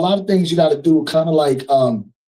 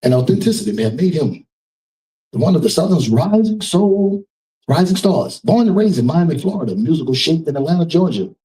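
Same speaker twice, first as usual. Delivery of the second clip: event announcer. Real, not acted. Host reading the singer's biography to the gala crowd, announcer voice. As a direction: present the artist to the audience. Host reads artist introduction.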